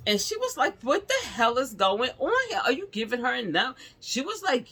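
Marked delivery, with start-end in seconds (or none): 0.8-3.7 high, urgent exasperated questions; alarmed questioning. Retold or imitated. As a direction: imitate a doctor demanding answers. Doctor alarmed at patient's cries.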